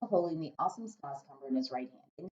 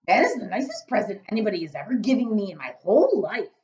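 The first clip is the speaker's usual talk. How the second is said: overjoyed giant; 5 semitones higher, 9 dB louder than usual. Acted. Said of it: "cried the B F G".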